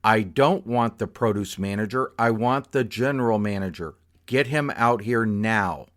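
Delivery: mock yell, insisting on the boss. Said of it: "She gets louder".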